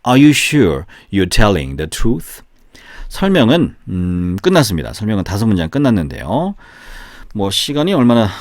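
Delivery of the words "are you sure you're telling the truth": teacher reading a drill sentence slowly and clearly; slow model reading. Shown as a demonstration. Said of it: "한 번 더 시작".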